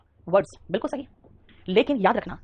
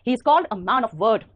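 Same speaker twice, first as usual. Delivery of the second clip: slow dictation; much slower than usual. Shown as a demonstration. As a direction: say it out word by word, very slowly. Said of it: "Man of words बोलोगे गड़बड़ हो जाएगा".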